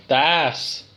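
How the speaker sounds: "ass" for house, with the H left off; dropped H. Real, not acted. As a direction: say house without its H so it sounds like "ass". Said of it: "we don't pronounce the H's".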